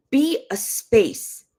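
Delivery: "Be" high and drawn out slow; "Be" lifted and slowed; stress on be. Real, not acted. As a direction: stretch out "Be a space". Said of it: "stress on Be".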